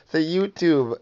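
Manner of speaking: slow prompting. Shown as a demonstration. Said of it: "Say it".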